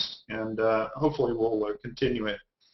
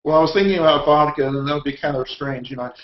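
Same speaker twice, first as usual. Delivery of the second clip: normal talking voice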